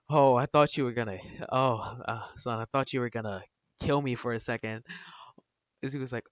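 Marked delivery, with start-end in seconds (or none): 0.1-4.9 relieved. Retold or imitated. Dad telling his son he feared being killed, relieved. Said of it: "lets out a massive sigh of relief".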